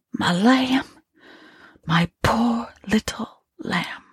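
high, whispered grief; the woman whispering through tears over the body; beginning to cry. A narrator's reading. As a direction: break into tears over her. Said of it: "beginning to cry".

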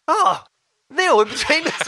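high, imitated shout of recognition; excited British lad. British lad recognising an actor in the Vatican, imitated excitement. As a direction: mimic a fan spotting someone off the telly. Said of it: "some British lad was like".

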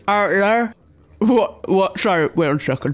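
talking with a mouthful of food; words round a bite of food; mouth full. Real, not acted. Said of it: "I've still got a mouthful of food".

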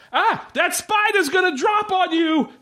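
crazy patient. Retold or imitated. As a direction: warn him like a raving madman. Asylum patient voiced, crazy.

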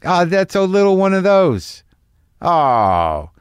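high, delighted little coo over tiny things; thrilled by travel sizes, cooing. Retold or imitated. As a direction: gush over a tiny bottle. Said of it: "some excitement I get".

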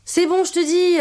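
high, irritated insistence; exasperated. Acted. Daughter refusing to have her plate reheated, exasperated. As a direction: cut off the fussing, fed up. Snaps at mother's fussing over food.

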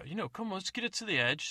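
put-on a greedy old codger eager for the carcass; old man. Old man urges them on.

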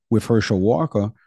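accidental slip into a Southern accent. Real, not acted. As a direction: let "Walker" slide out Southern, as "Walkuh". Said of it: "I gave a Southern accent".

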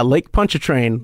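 Pontchartrain as "PON-cha-train"; Anglicized Pontchartrain, "PUNCH-a-train"; American pronunciation. Shown as a demonstration. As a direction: say Pontchartrain with plain English sounds, "PON-chuh-train". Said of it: "there is something charming about the American".

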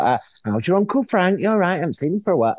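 lightly voiced cheerful fan; chatty stranger. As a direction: mimic a friendly stranger mistaking him for kin. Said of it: "come up to me and go like".

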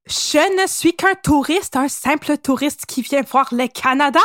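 slow, mock German accent on the spy's alibi; bad German accent. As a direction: ham a clumsy German accent. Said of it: "C'est pas super mon accent allemand".

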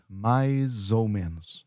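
"mais ou menos" slowly, run together as "maiz-ou"; drawn-out "mai-zou menos"; linked Z sound. Shown as a demonstration. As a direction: join "mais" to "ou" with a Z. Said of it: "it sounds like a Z".

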